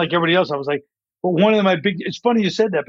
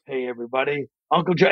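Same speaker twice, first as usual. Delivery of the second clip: lightly voiced composed voiceover man; back to voiceover; 4 semitones lower, 3 dB quieter than usual. Voiceover guy going back to the ad, composed announcer voice. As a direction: drop softer and lower into the announcer. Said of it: "he keeps going back to that".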